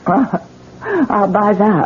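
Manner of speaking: slow, laughing scornfully; bitter laugh. Acted. Wife to the policeman, scoffing at shock, bitter laugh. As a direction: laugh it off with contempt.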